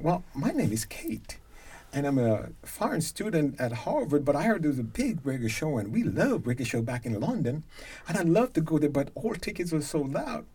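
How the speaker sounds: lightly imitated London English voice; a touch of Cockney student on the phone; imitated Cockney accent. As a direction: retell it with a slight Cockney lilt. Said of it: "this is a Cockney accent".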